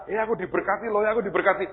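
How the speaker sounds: high-pitched showy brag; mock boasting. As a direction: imitate someone crowing about their blessings. Meniru orang pamer berkat. (pamer dengan nada tinggi dibuat-buat)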